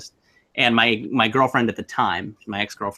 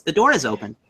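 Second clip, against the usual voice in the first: put-on little girl voice; 4 semitones higher than usual. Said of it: "just mimics her and says".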